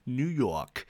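New York said in a badly faked New York accent; a weak stab at a New York accent on New York. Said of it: "That's a terrible attempt at a New York accent".

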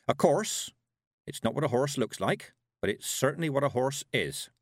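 a hint of a folksy old witch; witch musing. A narrator's reading.

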